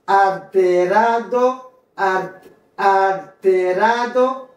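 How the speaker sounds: alterado drawn out with "-RA-do" sounded; "alterado" ending in a distinct "-ado"; full D. Shown as a demonstration. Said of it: "ou qu'à prononcer ou qu'à pas".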